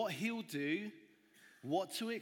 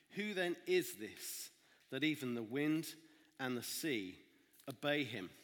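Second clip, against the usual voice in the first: steady scripture reading to the congregation; Bible reading. A narrator's reading. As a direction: read the passage calmly and clearly. Reads the Bible passage aloud.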